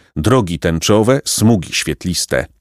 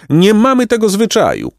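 pelican's yell; 12 semitones higher than usual. A narrator's reading. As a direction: bellow it like an offended bird. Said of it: "wrzasnął Pelikan".

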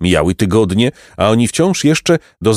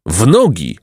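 yell; 2 semitones higher than usual. Acted. Jacek hearing the goat, yelling to flee. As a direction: bark the order to run. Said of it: "wrzasnął Jacek".

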